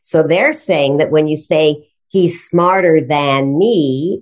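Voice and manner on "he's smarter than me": slow, careful example read; example sentence. Shown as a demonstration. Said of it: "we've turned "than" into a preposition".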